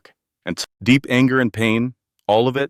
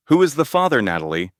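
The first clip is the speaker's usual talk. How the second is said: sharp demand; 6 semitones higher, faster than usual. Acted. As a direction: bark the question at her. Confronting her about the father.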